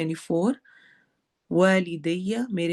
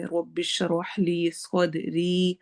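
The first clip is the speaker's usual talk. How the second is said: slow recitation; much slower than usual. Shown as a demonstration. Teacher recites earlier dua.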